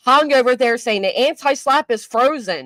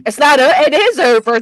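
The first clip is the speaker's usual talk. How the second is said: louder, triumphant insistence; elated declaration; 6 dB louder than usual. Real, not acted. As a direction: shout the victory out. Celebrating dismissal of the case.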